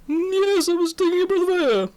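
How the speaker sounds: flustered lady, high and quick; Prudence McAllister. Acted. Miss McAllister answers the inspector, high flustered lady. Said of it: "Prudence McAllister".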